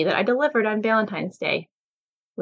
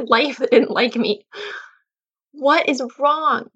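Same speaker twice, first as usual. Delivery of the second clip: pleading prayer to God; 6 semitones higher than usual. Retold or imitated. Retold tearful prayer to God.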